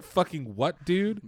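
incredulous high what, dude; baffled disbelief. Retold or imitated. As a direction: sound totally baffled. Himself retold, baffled.

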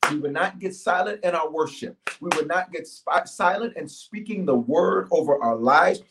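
steady preacher's prayer. Acted. Continues prayer.

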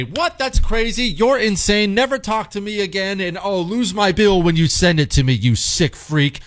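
high-pitched incredulous start, settling into firm dismissal; confident, outraged parent. Acted. Confident parent rebuffing the doctor, indignant firm dismissal. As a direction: refuse outright, as a sure-minded parent. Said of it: "with enough confidence in your own mind to say".

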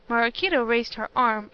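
ordinary delivery, nothing marked

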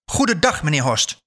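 high, sharp goodbye; irate dismissal. A narrator's reading. Old woman sends the haggling buyer away, irate. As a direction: end the argument on a high-pitched farewell.

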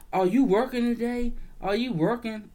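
pushy high mock of the customer; mock rude customer. Mimicking a rude customer at the counter, pushy. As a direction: rattle it off like a rude shopper. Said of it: "The bitch gives me".

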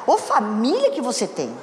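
mock exasperated grumble; disparaging. Imitating a husband running down his wife's family, disparaging. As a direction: complain about the relatives, half-joking. Repeats the criticising husband's jibe.

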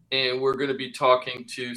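reverb on the mic; echoing room sound; big hall echo. Real, not acted. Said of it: "sorry about the reverb".

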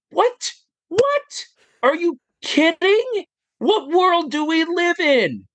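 floored that this is a job; incredulous astonishment. Real, not acted. Amazed that streaming is a job.

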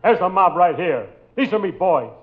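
1930s beat cop. Acted. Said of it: "I'm Ringer McGee".

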